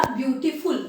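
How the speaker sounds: ब्यूटीफुल split briefly before the final "ful"; slightly separated syllables in ब्यूटीफुल; syllable break. Shown as a demonstration. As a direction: say ब्यूटीफुल in parts, beauty, then ful. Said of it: "यहाँ पे pause आया है".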